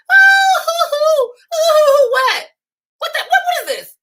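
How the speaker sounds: high shrieking mock disbelief; scandalized high squeal of what; mock shock. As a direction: shriek in over-the-top shock. Mock shock at crying man.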